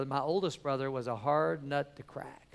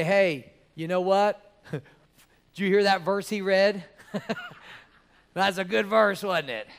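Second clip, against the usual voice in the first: mock cheerful praise; 5 semitones higher, 9 dB louder than usual. Mock upbeat praise after bad sermon.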